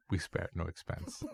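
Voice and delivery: slow, soft quote of Attenborough; lightly voiced grand old host, drawn out. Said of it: "I just say".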